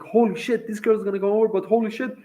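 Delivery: thrilled, tipping into nervous fretting; happy, then worried. Retold or imitated. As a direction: replay the giddy rush, pitched high. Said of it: "I'm so happy now".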